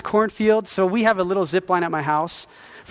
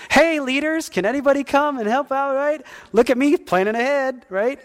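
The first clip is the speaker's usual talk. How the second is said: mock frantic plea; 7 semitones higher than usual. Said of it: "And I was like".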